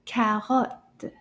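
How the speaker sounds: Carotte with a French R and a rising end; French word, rising end. Shown as a demonstration. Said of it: "Yay! Bravo!". (Carotte prononcé à la française, avec une intonation montante)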